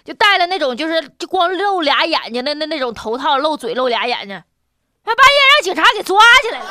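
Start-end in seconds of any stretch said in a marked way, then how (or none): 5.0-6.6 laughing through the punchline; bursting into laughter mid-sentence. Real, not acted. Funny story punchline.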